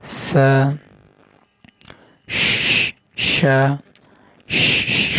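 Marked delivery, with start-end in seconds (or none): 2.3-5.2 শ breathed out unvoiced; hissed sha. Shown as a demonstration. Teacher showing the breathy শ to learners. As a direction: let শ hiss out as breath. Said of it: "শব্দ করতে হবে".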